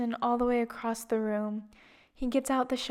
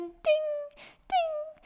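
mock ding sounds. Imitating vaccine timer dings.

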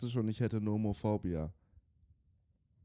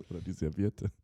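put-on Russian accent; 3 semitones lower, 4 dB quieter than usual. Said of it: "mit russischem Akzent ausgesprochen".

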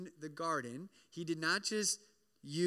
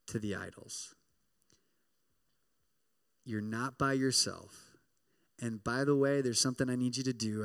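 lower, steady voice of God; God sending Elijah on his mission; God's voice; 6 semitones lower than usual. Retold or imitated. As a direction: speak as a calm commanding God. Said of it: "he reminds him".

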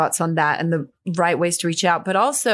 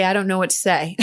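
sheepish quote with a laugh in it; half-laughing admission. Real, not acted. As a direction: say it with a self-mocking chuckle. Admitting awkward self-quote, laughs.

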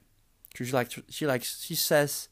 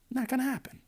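much higher, singsong; high mock repeat; faster than usual. Shown as a demonstration. Podcaster to the girl, repeating it high and mocking. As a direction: toss it back up high.

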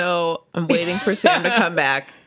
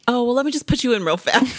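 sweet favour voice; 6 semitones higher, faster than usual. Retold or imitated. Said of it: "they're like".

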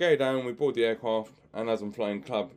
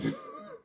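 high giggle; 9 dB quieter than usual. Real, not acted. Laughs at own story.

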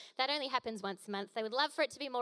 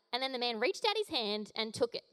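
usual speaking voice

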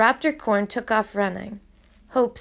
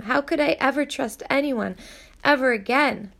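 higher, rushed anguished pleading; emotional plea; 4 semitones higher than usual. Acted. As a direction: pour out her confused hopes.

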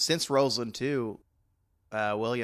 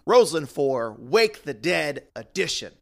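announcer voice; 3 semitones higher, 6 dB louder than usual. Acted. Announcing the event title.

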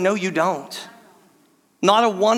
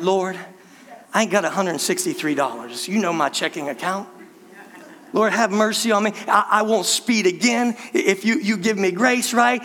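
desperate prayer. Retold or imitated. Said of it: "You're praying, right?".

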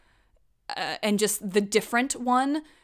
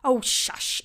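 exasperated breathy brush-off; dismissive mom; 3 semitones higher, slower than usual. Retold or imitated. Mom brushing off her daughter's argument, exasperated hush. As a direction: wave her daughter off with a sigh. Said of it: "she'd just be like".

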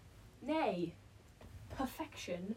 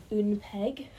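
mock French; 6 dB louder than usual. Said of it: "Again with the French".

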